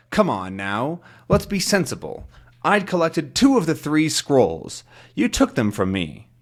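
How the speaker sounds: lightly voiced villain with lifted, swinging pitch; mildly menacing storybook kidnapper; hidden captor, insistent. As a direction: press the prisoner to admit it. Voices the unseen captor accusing Tintin.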